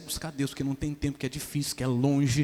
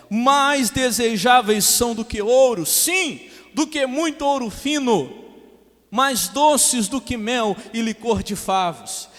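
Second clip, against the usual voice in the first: loud, high, slow proclamation; ringing, stretched-out Bible reading; preaching scripture reading; 8 semitones higher, 8 dB louder, slower than usual. Real, not acted. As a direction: declaim the verse to the whole church.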